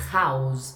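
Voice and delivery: house with a breathy H clearly heard. Shown as a demonstration. Teacher showing students the audible H. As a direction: let the H breathe at the start of house. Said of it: "eu escuto house".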